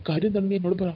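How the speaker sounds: a little stern. Retold or imitated. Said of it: "ചേച്ചിയുടെ ശബ്ദം അല്പം വനത്തതായി".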